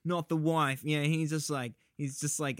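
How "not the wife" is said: put-on lightly done Southern accent; a hint of Southern melodrama; weird Southern accent. Husband pleading for his wife, light Southern accent. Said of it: "has this weird Southern accent".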